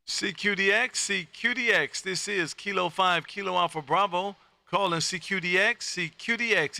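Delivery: steady, rhythmic call-sign read over the air; radio CQ call. Acted. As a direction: call out to any station in a practiced operator cadence. Radio CQ calling routine.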